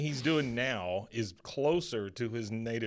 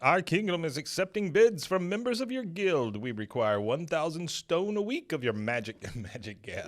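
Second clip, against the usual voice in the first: higher and louder, pompous royal speech; mock king decree; 7 semitones higher, 5 dB louder than usual. Retelling the king demanding gas from Hank, mock royal. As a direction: proclaim like a grand king. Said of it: "He goes".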